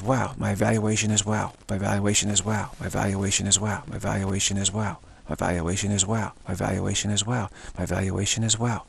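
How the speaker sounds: the same phrase looped evenly, over and over; relentless repetition. Shown as a demonstration. Teacher showing the endless wow practice, an even repeated drone. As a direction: keep droning it without a break. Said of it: "just keep doing that relentlessly".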